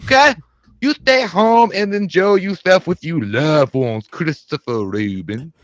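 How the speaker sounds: lightly voiced spooky character; a hint of a put-on monster voice; Slender Man voice. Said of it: "could I get Slender Man to wish".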